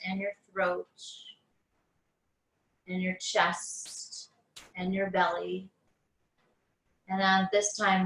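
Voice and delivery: unhurried meditation guide, long pauses between phrases; guided meditation. Acted. Teacher guiding listeners on mats through breath awareness, guided meditation. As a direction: ease them into noticing the breath, phrase by phrase.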